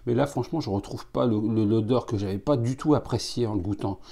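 talking into a glass; muffled by glass rim; speaking with glass at lips. Real, not acted. Seen 3: Small tasting glass held at or against lips throughout speech.

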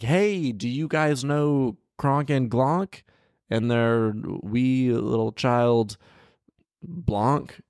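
high, slow mock friendly call; mock giant greeting. Man asking giants about friends, high mock call. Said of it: "Be like".

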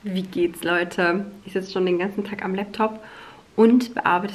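talking while chewing gum. Real, not acted. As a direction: speak around a wad of gum. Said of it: "ich habe einen Kaugummi im Mund".

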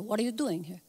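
a hint of a Jewish mother, said softly. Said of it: "saying it like a Jewish mother".

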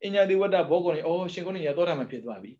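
a monk reading, exclaiming in discovery; exclaiming in wonder. Retold or imitated. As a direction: call it out as a sudden discovery. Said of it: "ဦးဇင်းတော် ဖတ်ဖတ်ဖတ်တာ".

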